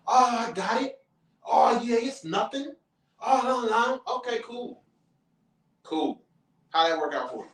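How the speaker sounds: high, braggy show-off voice; loud show-off. Retold or imitated. Loudmouth flashing money at the club, high and braggy. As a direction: brag about the money like it's nothing. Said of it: "being super duper loud about it".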